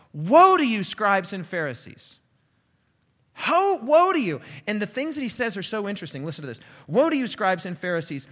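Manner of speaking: loud, high, forceful preaching of each woe; thundering woes. Acted. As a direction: hurl every woe at the Pharisees like a judgment.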